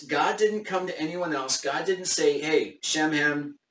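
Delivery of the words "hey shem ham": talking through hiccups. Real, not acted. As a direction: voice caught by a hiccup. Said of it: "sorry, I'm hiccuping".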